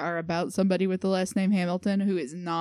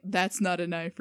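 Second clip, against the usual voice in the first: lightly faked Australian catchphrase; attempted Australian accent. Guest testing a catchphrase, light Australian accent. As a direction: quote it in a rough Australian accent. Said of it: "that's a good Australian accent".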